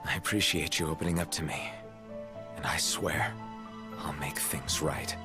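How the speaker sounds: gentle reassurance. Acted. King comforts someone who blames themselves, gentle reassurance.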